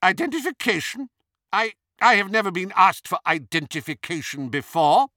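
high, loud, affronted woman; Hermione. A narrator's reading. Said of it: "said Hermione".

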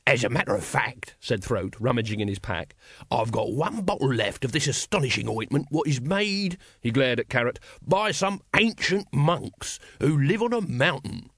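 hawker pitching his miracle cure; salesman's patter, rising and slowing at the end; street salesman Throat. Acted. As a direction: sell it like a market trader.

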